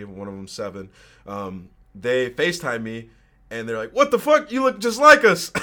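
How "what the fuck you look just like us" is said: high, loud, laughing disbelief; shocked yell. Retold or imitated. Brothers on FaceTime seeing their lookalike, shocked laughing yell. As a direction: blurt it out in happy shock.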